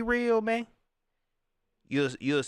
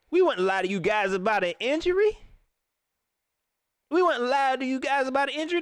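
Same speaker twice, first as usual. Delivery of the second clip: lifted, emphatic demo of the right line; proper phrasing; 7 semitones higher, 3 dB louder, faster than usual. Shown as a demonstration. Host showing the coach what to say, raised and emphatic. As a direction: say it like a coach should. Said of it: "you should say".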